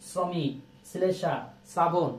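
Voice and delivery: slow example words, each opening on a crisp s sound; dental s demonstration. Shown as a demonstration. Teacher showing students how তালব্য শ turns to s, slow demonstration. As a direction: say শ্রমিক, শ্লেষা, শ্রাবণ slowly with a dental s. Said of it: "দন্ত স্বর মতন উচ্চারণ হয়".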